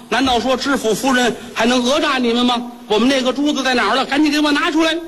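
high, rising furious demand; haughty demand. Acted. The wife demands the pearl from the shopkeeper, rising in anger. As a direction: threaten them as the prefect's wife.

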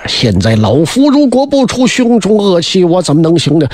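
慢慢压着嗓子说出老头的怨气; 气坏的老将军. Acted. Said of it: "把老头黄滚可气坏了". (老将军黄滚冲黄明发火，略带怒气地慢说)

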